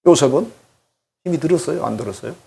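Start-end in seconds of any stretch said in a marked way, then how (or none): none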